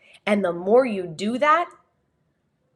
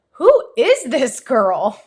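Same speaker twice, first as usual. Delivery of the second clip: slow, loud mock disbelief; imitating a baffled viewer; incredulous viewer; 3 semitones higher, 5 dB louder, slower than usual. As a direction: stretch it out, incredulous. Acted viewer reaction to fake accent.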